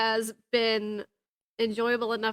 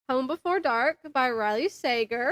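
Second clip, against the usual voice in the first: mouth full. Real, not acted. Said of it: "Sorry, I'm eating".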